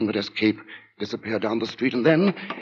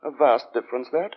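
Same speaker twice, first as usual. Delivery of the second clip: sinister lodger; 8 semitones higher than usual. Acted. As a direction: speak like a polite man hiding menace. Narrator voices the lodger Sleuth.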